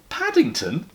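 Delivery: bear trying the name. Acted. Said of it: "tested it several times".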